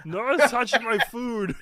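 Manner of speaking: loud, drawn-out brute warning; half Sloth, half Lenny. Acted. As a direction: warn them off like a possessive oaf. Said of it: "half Sloth and half Lenny".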